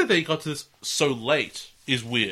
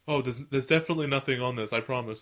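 bad liar's cover-up; faster than usual. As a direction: imitate hastily covering up a slip. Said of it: "he has the same moment of like".

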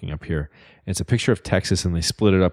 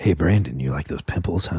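lower, coaxing tempter voice; teasing Instagram voice; 3 semitones lower than usual. Pretend. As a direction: lure him in like a sly salesman. Voicing Instagram tempting Brandon.

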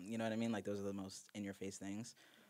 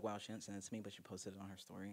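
fake hurt; 7 dB quieter than usual. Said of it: "I'm just kidding".

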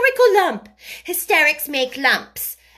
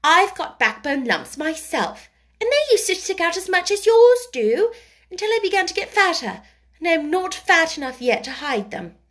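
put-on high, loud, emphatic childish scolding; cross child; 10 semitones higher, 5 dB louder than usual. A narrator's reading. Mary tells the boy there's no lump, crossly. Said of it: "those crossly spoken childish words".

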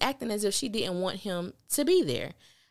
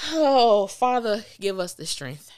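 exasperated mock prayer; 6 dB louder, slower than usual. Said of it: "mock prayer".

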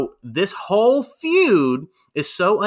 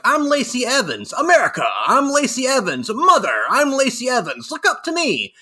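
mock weepy Lacey; 10 semitones higher, 4 dB louder than usual. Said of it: "And now she's like".

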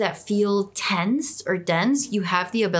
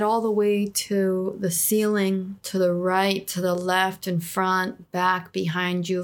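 guided meditation. Acted. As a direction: lead them gently into calm.

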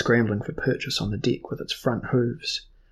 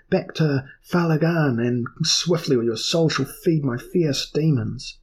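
loud, higher threatening command; threatening order; 4 semitones higher, 4 dB louder than usual. Acted. Earl threatens his crew to flee swiftly.

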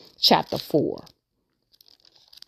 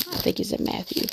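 whispered "I think it's in Matthew" under her breath; whispered to herself; 8 dB quieter than usual. Real, not acted. Preacher whispers to herself while hunting the verse.

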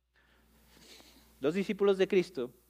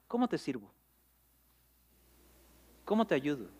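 softer, gentle offer of help; Jesus gently asking the blind men, softer; gentle modern paraphrase; 3 semitones lower, 6 dB quieter than usual. Acted. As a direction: say it softly like a kind friend. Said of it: "lo diga en español dos mil veintitrés".

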